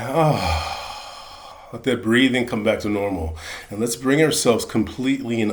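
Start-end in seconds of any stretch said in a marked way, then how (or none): 0.1-1.7 big audible sigh. Shown as a demonstration. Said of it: "make that big sigh".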